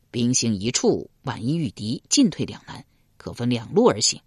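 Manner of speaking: 君王沉稳下令. Acted. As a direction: give the battle plan calmly. King commands.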